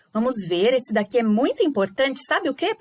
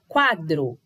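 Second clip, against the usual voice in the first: "quadro" with QUA strong, DRO falling away; stress on QUA; 5 semitones lower than usual. Shown as a demonstration. Teacher repeating the example for pupils, stressed QUA. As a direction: punch the first syllable of "quadro". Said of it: "Sai mais forte do que o dro".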